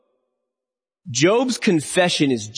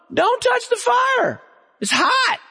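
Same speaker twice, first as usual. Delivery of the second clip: emphatic warning shout; slower than usual. Acted. Preacher's sharp warning.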